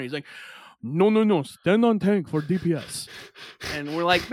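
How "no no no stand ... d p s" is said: put-on thick Russian accent over voice chat; insistent gamer with a Russian accent; bossy Russian-accented correction. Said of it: "We had this Russian guy".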